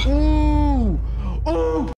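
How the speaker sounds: loud high ooh; thrilled cry at the hit; excited ooh. Real, not acted. Watching the anvil drop.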